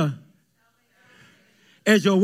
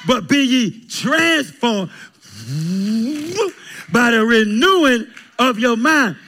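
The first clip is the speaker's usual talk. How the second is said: full-force preaching; 2 semitones higher than usual. Acted. Pastor to congregation about Paul in prison, preaching at full force.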